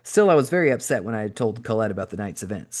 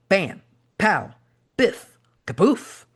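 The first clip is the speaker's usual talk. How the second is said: higher, punchy sound-effect shouts; comic book yelling; 9 semitones higher, 3 dB louder, much slower than usual. Retold or imitated. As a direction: call each hit like a TV fight. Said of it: "I'd yell".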